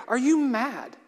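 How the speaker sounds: high, loud warning shout; alarmed cry. Acted. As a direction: cry out to stop him. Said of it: "he cried".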